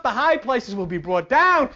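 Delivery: ordinary talk, nothing marked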